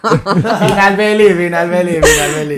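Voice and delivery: laughing. Real, not acted. Teasing chant, laughing.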